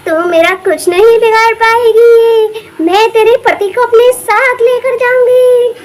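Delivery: slow, drawn-out menacing witch. Acted. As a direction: savour the threat like a hungry witch. Witch threatens wife.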